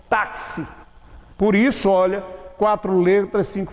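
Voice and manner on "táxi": "táxi" with the X sounded as a crisp K-S; X pronounced as KS. Shown as a demonstration. Teacher showing the double sound of X, "táxi" said with K-S. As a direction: say "táxi" with both K and S heard in the X. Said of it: "Eu pronuncio o X como se fosse K S".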